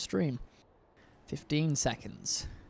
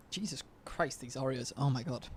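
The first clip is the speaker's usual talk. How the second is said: talking through burps; burping; 4 dB quieter than usual. Real, not acted. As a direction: speak between burps. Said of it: "I can't stop burping".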